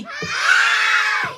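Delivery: high, unvoiced puppet yell; puppet shouting hi. Puppet greets crowd on cue, high yell. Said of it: "Sabihin nyo, "Hi!".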